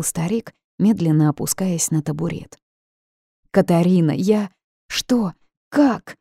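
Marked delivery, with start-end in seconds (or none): 3.5-6.2 rising higher in alarm, breaking off; alarmed exclamation. A narrator's reading. Old ghost breaks off, alarmed, pitch jumping higher. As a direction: cut yourself off, startled by a sound. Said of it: "встревоженно воскликнул старик".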